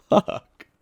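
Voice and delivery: frustrated curse under breath; whispered curse. Real, not acted. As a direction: hiss it to yourself. Frustrated after another flubbed take.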